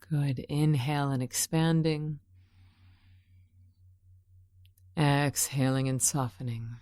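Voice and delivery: calm meditation voice with spacious pauses; guided meditation. Real, not acted. Guide leading unwell listeners through breathing, calm meditation voice. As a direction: guide their attention inward, breath by breath. Leads breathing and visualization exercise.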